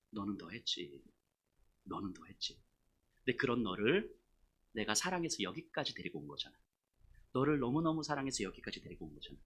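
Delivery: hushed, low loving reproach; God's gentle voice. Acted. God telling the pastor of His love, low and soft. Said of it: "하나님의 마음은 제 자신을 향해".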